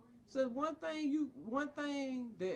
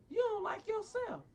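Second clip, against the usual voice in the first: louder, higher furious retort; angry outburst; 10 semitones higher, 4 dB louder than usual. Real, not acted. Father shouting back at the psychiatrist in anger. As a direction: throw it back at him hard.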